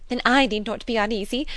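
high, loud, eager chatterer; Miss Bates. A narrator's reading. Spinster seeking everybody's assent, high excited prattle. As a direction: gush along in good-humoured self-mockery. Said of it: "exclaimed Miss Bates".

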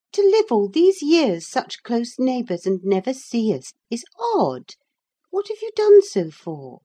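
put-on high, lively young girl; bright eager girl chiding her uncle. A narrator's reading. Young Catherine's voice.

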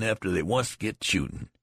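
"once get shootin'" each word hit hard; emphasis on last four words. A narrator's reading. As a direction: stress "after they once get shootin'" heavily. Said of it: "with a mighty emphasis on the last four words".

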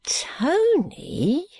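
high breathy whisper; hushed, secretive call of his name. Acted. Guppy whispering to Tony by the fire.

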